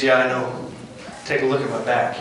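soft, low answer as Jesus; gentle reassurance. Acted. Jesus answering a struggling believer, soft and low. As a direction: comfort quietly, unhurried.

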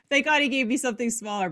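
laughing through fast words; giggling relief, rushed out. Real, not acted. Laughing at the hard name.

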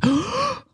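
high-pitched gasp of amazement; sharp, high mock gasp; imitated crowd gasp. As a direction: mimic a stunned audience gasping. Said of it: "Like, people screaming".

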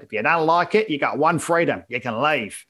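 lightly put-on Australian politician; mock Australian prime minister, mild; imitated Australian accent. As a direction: quote it in a broad Australian accent. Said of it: "Australian Prime Minister talking about immigrants complaining".

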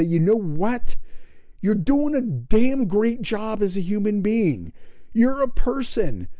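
high, bright cheerleading encouragement; enthusiastic pep talk. Acted. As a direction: hype the listener up. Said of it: "energetic and enthusiastic".

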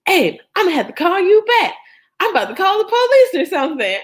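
panicked. Retold or imitated. Wife telling her friend on the phone, fast and panicked. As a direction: rattle it off in a panic.

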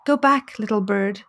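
lightly voiced majestic eagle god; a hint of a solemn, majestic god; understated solemn eagle. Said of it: "in a solemn and majestic voice".

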